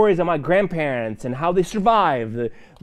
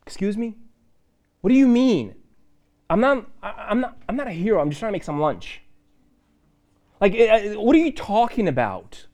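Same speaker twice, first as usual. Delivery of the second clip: acted incredulous Gideon, higher pitch; baffled disbelief; 4 semitones higher than usual. Gideon to the angel, incredulous and baffled. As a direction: push back like you can't believe the compliment.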